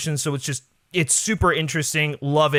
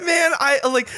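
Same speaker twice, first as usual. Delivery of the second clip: laughing; 11 semitones higher than usual. Real, not acted. Reacting to teasing with a laugh.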